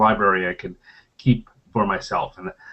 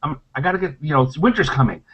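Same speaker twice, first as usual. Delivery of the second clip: higher, stammering squirrel voice; jittery squirrel; 6 semitones higher than usual. Acted. Squirrel pleading with a ranger for winter nuts, jittery. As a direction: play an anxious squirrel begging for nuts. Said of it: "And the squirrel's like".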